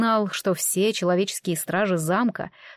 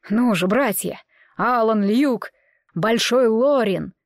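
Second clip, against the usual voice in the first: rallying call; 3 dB louder, slower than usual. Acted. Leader rallying the pack.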